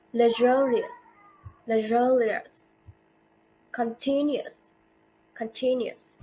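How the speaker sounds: "luxurious" and "continuous" stressed on XUR and TIN; second-syllable stress. Shown as a demonstration. Teacher repeats rule examples, "luxurious" and "continuous" stressed on second syllable. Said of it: "their stress on the second".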